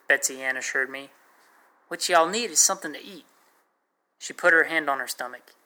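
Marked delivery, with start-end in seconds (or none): 1.9-3.3 lightly put-on Texas accent, pitched higher; a higher Texas girl's accent, lightly done. A narrator's reading. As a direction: sweet-talk the soldier boy in a light Texas accent. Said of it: "She had a thick Texas accent".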